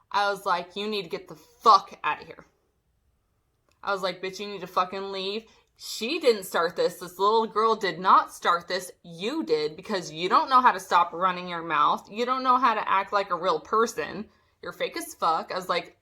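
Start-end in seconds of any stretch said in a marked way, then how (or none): 0.8-2.5 forceful retold order, punched swearing; louder, heated retelling; retold losing it. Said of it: "pretty much lost it". 4.2-15.5 heated retold telling-off; emphatic reenacted confrontation; retold losing it. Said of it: "pretty much lost it".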